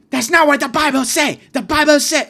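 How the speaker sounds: high, very loud mock Asian-accented scream; screaming Asian kid. Student screams at a group about the Bible, Asian accent. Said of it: "He's just screaming this at this group".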